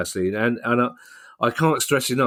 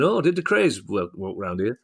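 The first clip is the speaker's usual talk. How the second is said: Orville the Duck. Retold or imitated. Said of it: "talk like Orville the Duck".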